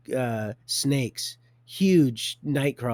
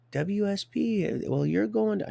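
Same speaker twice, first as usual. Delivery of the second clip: mimicking the officers; 9 semitones higher than usual. Retold officials in quoted exchange.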